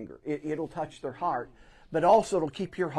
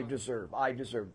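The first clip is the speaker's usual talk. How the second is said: mock self-pity; 3 semitones lower, 6 dB quieter than usual. Shown as a demonstration. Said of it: "Those, those are ugly words".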